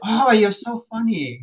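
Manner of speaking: high, drawn-out imitation of her delight; amused lady customer. Lady customer taking his answer as a joke, imitated amusement. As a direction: stretch it slowly, high and tickled. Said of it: "And she goes".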